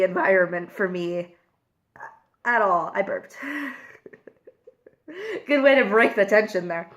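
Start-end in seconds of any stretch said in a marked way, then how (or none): 5.5-6.9 laughing. Real, not acted. Laughs after burping.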